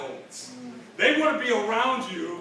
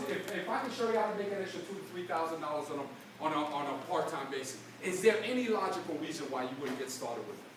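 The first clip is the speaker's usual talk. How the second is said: soft pitch; 5 semitones lower, 6 dB quieter than usual. Shown as a demonstration.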